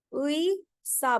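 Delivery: उई सा slowly, with उई as a glide from उ to ई; teacher modelling उई सा slowly; syllable demo. Shown as a demonstration. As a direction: draw out उई, then a separate सा. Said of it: "बोलेंगे".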